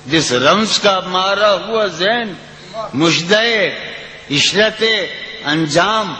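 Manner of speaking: lilting, sung-through recitation of a ghazal; poetry recitation. Acted. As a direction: recite it like at a mushaira. Recites the poem.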